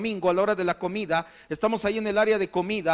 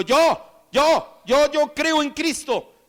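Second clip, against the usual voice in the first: high, eager cries of self-offering; eager declaration; 6 semitones higher, much slower than usual. Acted. Healed man declaring his faith in Christ, high eager cry. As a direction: blurt it out high, eager to be noticed. Acted eager new believer crying out.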